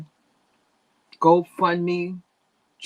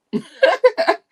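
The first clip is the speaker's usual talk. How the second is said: high laugh; 7 dB louder than usual. Real, not acted. Laughing at own joke.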